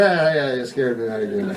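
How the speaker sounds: acted weary acknowledgement; no longer startled. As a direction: play a half-hearted fright, trailing down. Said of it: "at first you'd be startled".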